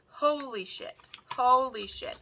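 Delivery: high-pitched repeated exclamation; amazed excitement. Real, not acted. Amazed by the gifted makeup, high excited exclaiming.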